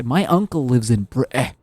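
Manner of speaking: hammed-up British accent, cutting Brit- short; failed British accent, pitch lifting; attempted British accent. Shown as a demonstration. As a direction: put on a bad British accent. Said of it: "to get that British accent, but I can't".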